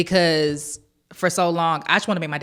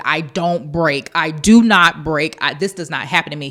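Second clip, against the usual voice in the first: retold scream; 6 dB louder than usual. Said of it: "I screamed".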